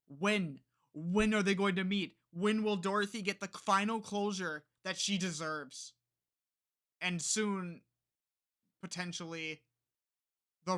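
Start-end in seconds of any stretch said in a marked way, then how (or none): 0.1-5.9 impatient fan outcry. Retold or imitated. Quotes fans' impatient waiting.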